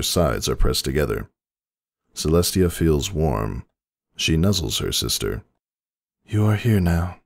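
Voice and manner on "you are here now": gentle whisper. A narrator's reading. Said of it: "she whispers".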